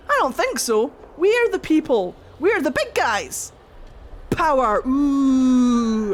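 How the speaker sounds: a light haughty god voice; arrogant gods. Retold or imitated. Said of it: "the Evan Uris were like".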